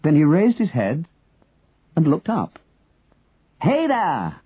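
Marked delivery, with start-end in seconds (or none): 3.6-4.4 high-pitched hail at normal volume; calling out. A narrator's reading. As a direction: call up high to someone far off. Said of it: "Henry shouted".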